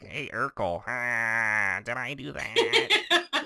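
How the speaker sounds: loud nerdy sitcom catchphrase, drawn out and climbing high; hammed-up nerd voice breaking into a laugh; Urkel. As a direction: whine it big and goofy, stretching the last words. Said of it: "how nerdy I sound on this show".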